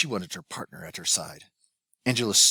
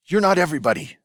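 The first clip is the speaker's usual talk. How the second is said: angry shout; 9 semitones higher, 7 dB louder, faster than usual. A narrator's reading. Father scolding son.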